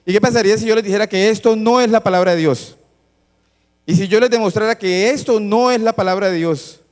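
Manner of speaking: forceful challenge. Real, not acted. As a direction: press the question hard on every word.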